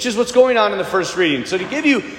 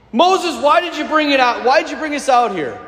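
higher, hurried mock grievance; mock complaining; 4 semitones higher than usual. Israelites blaming Moses in the desert, mock complaining. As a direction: complain like a fed-up follower. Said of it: "They're complaining".

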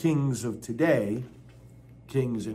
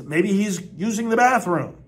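loud, higher sarcastic taunt; mocking jab; 6 semitones higher, 6 dB louder than usual. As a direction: land it like a punchline. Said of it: "Elijah is mocking them".

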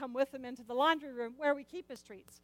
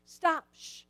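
high, loud stop then a shush; shushing the dog at dawn; scolding shush; 6 semitones higher, 7 dB louder than usual. Retold or imitated. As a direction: hush the dog firmly. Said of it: "And I'm like".

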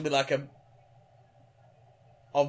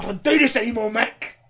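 slightly raised mock exasperation; acted fed-up protest; 4 semitones higher, 5 dB louder than usual. Actor refusing to carry on, mock exasperation. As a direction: refuse like an actor at the end of his rope.

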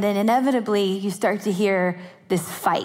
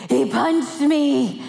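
put-on whiny crying child; 4 semitones higher, much slower than usual.

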